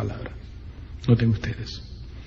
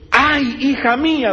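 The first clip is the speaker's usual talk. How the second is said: higher, slow wailing "Ay, hija mía"; anguished father's cry; 9 semitones higher, slower than usual. Retold or imitated. Jephthah seeing his daughter come out, slow grieving wail. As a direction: stretch "mía" into a grieving lament. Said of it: "rompió su vestido diciendo".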